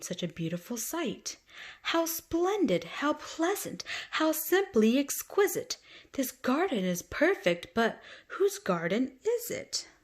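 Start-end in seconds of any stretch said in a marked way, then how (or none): 1.8-9.9 Miss McGee delighted. Acted. Miss McGee admiring the garden.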